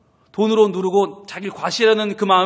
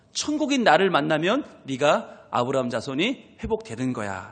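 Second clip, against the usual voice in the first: softer, lower and tender; tender Jesus voice; 5 semitones lower, 4 dB quieter than usual. Acted. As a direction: comfort him like a child. Jesus tenderly addressing him. (아이를 달래듯 부드럽고 낮게)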